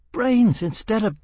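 high shrieking laugh breaking in; hysterical laughter. A narrator's reading. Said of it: "shrieked with hysterical laughter".

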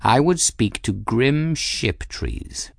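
slow, lofty cat; aloof cat voice. Acted. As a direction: say it with regal calm. Cat character voice.

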